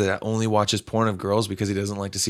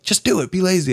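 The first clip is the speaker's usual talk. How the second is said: higher, egging-on friend; friend's voice; 8 semitones higher than usual. Retold or imitated. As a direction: coax like a pushy buddy. Friend voiced urging laziness.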